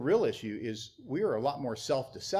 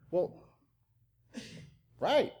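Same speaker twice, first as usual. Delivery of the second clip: scoffing; 7 semitones higher than usual. Real, not acted. Pastor scoffs at an excuse.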